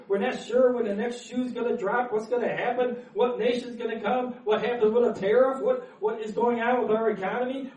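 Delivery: getting worked up about the news. Real, not acted. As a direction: build the anxious list, pressing on. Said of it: "Getting all worked up".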